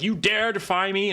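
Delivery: high, loud, imperious sorceress; dark lord. Retold or imitated. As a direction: thunder it like an offended goddess. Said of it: "She'll be like".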